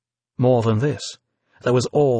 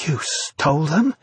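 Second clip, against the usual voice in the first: afraid; 3 semitones higher than usual. A narrator's reading. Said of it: "wide-eyed, suddenly afraid once more".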